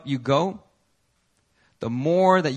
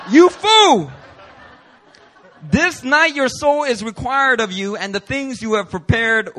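high, loud booming rebuke with a laugh in it; thundering rebuke; 5 semitones higher, 6 dB louder than usual. Acted. Preacher voicing God's judgment on the rich fool, loud shout. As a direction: roar it like God's verdict.

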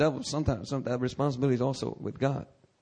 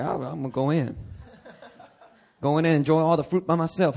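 joking selfishness. Pretend. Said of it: "That's not my attitude".

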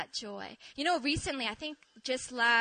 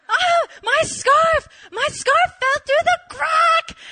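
very high, loud and slow, half laughing; wailing laughing yell; 14 semitones higher, 12 dB louder, slower than usual. Retold or imitated. Repeating the news to her friend, slow laughing wail. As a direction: wail it out, cracking up.

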